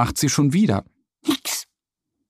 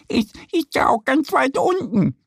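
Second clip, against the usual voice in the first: higher duck voice, mildly annoyed; a little stamp of irritation in the voice; 12 semitones higher than usual. A narrator's reading. Duck Annie annoyed at the badger, higher mild annoyance. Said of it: "stampft genervt".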